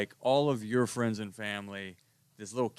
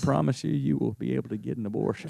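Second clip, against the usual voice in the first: higher, louder, laughing Texas charm; hammed-up Texas accent; 7 semitones higher, 7 dB louder than usual. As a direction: lay on a thick Texas accent to woo a girl. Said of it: "I could always ham it up for you".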